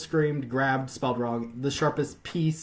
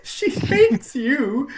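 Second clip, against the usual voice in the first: Film Brain impression; 13 semitones higher, 8 dB louder, much slower than usual. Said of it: "How does Film Brain talk?".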